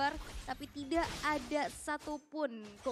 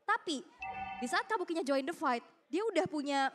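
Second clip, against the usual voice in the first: play-by-play commentary =29. Acted. Live esports play-by-play.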